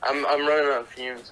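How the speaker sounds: worn-out hungover voice; tired, drained from last night. Real, not acted. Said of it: "Hungover as shit".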